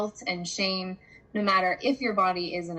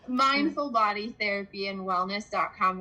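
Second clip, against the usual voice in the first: careful, more measured website name; slower repeat. Real, not acted. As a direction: spell it out clearly for the listener, unhurried. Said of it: "I said that really fast".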